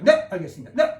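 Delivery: mock soldier answering; a short laughing yes sir; military reply. Shown as a demonstration. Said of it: "군대에서 그럼 많이 하죠".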